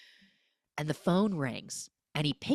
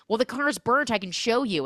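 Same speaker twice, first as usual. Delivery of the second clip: mock cop voice; 7 semitones higher, 5 dB louder than usual. Cops offering to show car.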